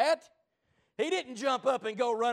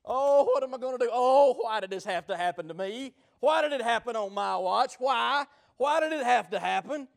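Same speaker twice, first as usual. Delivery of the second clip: mock panicked whining; 3 semitones higher, 3 dB louder than usual. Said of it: "start wringing his hands".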